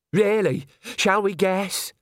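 high, loud sarcasm; mock the manager openly; sarcastic gypsy.

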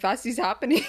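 laughing mock Indian accent; imitated Indian-sounding accent. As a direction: attempt a silly Indian-like accent. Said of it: "that sounds more Indian".

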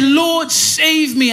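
high, drawn-out plea for rescue; acted cry for help. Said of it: "Cried out".

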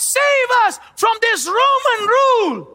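emphatic mock cry from a preacher; retold crowd shout. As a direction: voice the crowd's plea forcefully. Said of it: "They were shouting".

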